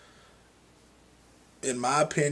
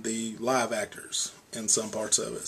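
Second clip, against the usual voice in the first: whispered aside; 7 dB quieter than usual. Real, not acted. Confiding aside about actors.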